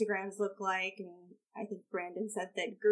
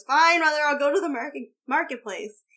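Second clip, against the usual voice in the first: loud, raised-pitch mock outburst; exasperated son; 6 semitones higher, 9 dB louder than usual. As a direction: play a son caving in to mother, loudly. Acting the son giving in loudly.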